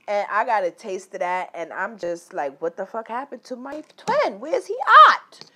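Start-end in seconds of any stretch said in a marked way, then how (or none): 2.6-5.5 high, loud desperate cry out; frantic yelling. Retold or imitated. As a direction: shout like you lost him. Retells frantic longing for twin.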